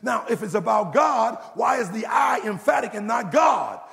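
impassioned, rolling pulpit proclamation; full-force preaching. Real, not acted. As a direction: preach it hard, building point on point.

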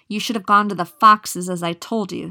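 the witch striking the mare, loud angry scolding. Acted. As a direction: tear into the mare loudly.

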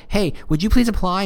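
high, needy mock plea; desperate pleading. Employer begging candidates to apply, mock desperate pleading. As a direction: beg like an overeager recruiter. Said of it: "you're desperate for those applications".

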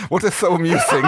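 high, loud indignant demand; exploding in exasperation. Acted. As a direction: burst out, laughter creeping in. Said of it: "Braca finally exploded".

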